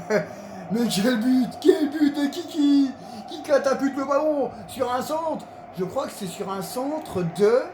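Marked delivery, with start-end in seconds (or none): 0.1-5.5 excited sports commentary. Real, not acted. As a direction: laugh then rave about the goal. Player replays goal excitedly.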